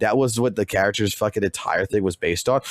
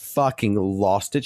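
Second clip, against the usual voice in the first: ordinary delivery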